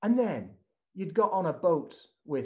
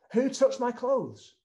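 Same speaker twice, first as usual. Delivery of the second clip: Jesus asking; 6 semitones higher, 4 dB louder than usual. Acted. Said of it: "he says".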